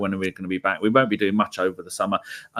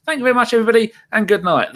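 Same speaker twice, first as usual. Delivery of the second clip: hammed-up cheery sign-off, higher and louder; mock show sign-off; 11 semitones higher, 4 dB louder, faster than usual. Host mockingly ends the fake transfer show, hammed-up sign-off. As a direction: wrap up the pretend show brightly over the top.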